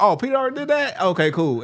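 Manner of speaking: high, mock deflated acceptance; mock sheepish headliner. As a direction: play it like a let-down pro.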